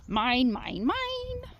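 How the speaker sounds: teasing a dog, pitch leaping up; high squeal on the last mine; playful dog talk. Real, not acted. Playing with dog.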